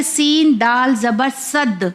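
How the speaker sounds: final d of صد struck so it bounces; صد with a pressed, doubled-sounding d; qalqalah on صد. Shown as a demonstration. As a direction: spell it out slowly, then rebound the d in صد. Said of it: "دال کا sound ٹکرائے گا".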